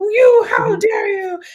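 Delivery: very high, shrill, drawn-out evil witch screech. Retelling a book scene where a witch hears a scream: evil witch voice. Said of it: "it's like the evil witch's voice".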